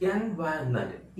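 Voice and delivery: "एनवायरनमेंट" as "en-VAIN-ment", r dropped; silent r. Shown as a demonstration. Teacher modelling the correct word, silent r. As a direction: drop the r from "एनवायरनमेंट". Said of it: "आर का pronunciation हो ही नहीं रहा".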